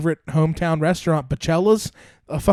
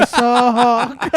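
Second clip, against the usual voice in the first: slow laughing mom voice warning of a hawk; laughing through a worried mother impression; mock worried mom, laughing; 6 semitones higher, 4 dB louder, slower than usual. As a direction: crack up while playing the anxious mom.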